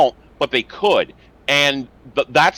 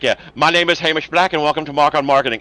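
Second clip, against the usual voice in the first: put-on failed Scottish accent; 3 semitones higher, faster than usual. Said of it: "I can't fucking do a Scottish accent".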